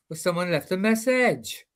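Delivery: Welsh accent. Shown as a demonstration. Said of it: "give us a couple of lines then".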